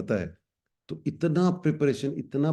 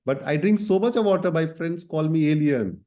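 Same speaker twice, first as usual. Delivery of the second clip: a light, higher-pitched singer's voice, slow and deliberate; voicing a singer; 4 semitones higher, 3 dB louder, much slower than usual. Teacher voicing the singer for students, higher and slow. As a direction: speak as the singer proudly listing her thirteens.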